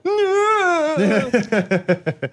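high imitated wail through a wall; long, high falling mock cry; father's wail. Imitating a movie father behind the wall, mock wail. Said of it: "you hear her father ... just go".

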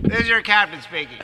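put-on drunk captain announcement. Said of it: "The captain's been drinking".

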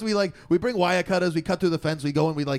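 animated put-on New York accent; old New Yorker accent. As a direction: imitate an excited old New Yorker telling exploits. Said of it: "old New Yorker".

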